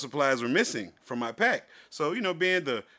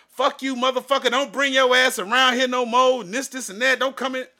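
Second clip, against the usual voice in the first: higher and louder, a mock furious tirade; retold yelling; 8 semitones higher, 5 dB louder than usual. Retelling the cashier cursing him out at the door, mock furious yelling. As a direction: hurl it like the angry cashier.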